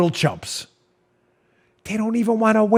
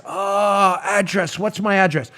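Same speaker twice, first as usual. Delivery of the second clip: mock clueless voter, softer; facetious confusion; 5 dB quieter, slower than usual. Host imitating a clueless voter facing a form, mock confusion. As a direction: play puzzled over a simple question. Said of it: "I'm being facetious here and silly".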